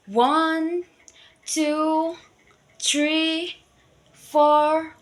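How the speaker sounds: counting out. A narrator's reading. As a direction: count the crocodiles one by one, high. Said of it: "started counting".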